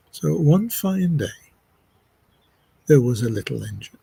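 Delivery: lilting story narration with pauses; lifted openings, phrase by phrase; storytelling. Acted. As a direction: tell it like a simple tale for listeners at rest. Begins telling a little story.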